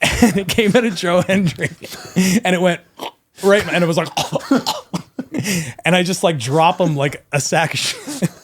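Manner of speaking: barely holding it together; giggling while telling the gross story; laughing. Real, not acted. Laughing through the fart story.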